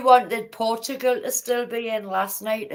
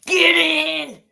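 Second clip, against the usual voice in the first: high, excited football cheer; 5 semitones higher, 4 dB louder than usual. Real, not acted. Fan cheering on Holland in the match, excited cheer. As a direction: cheer the team on, voice lifting.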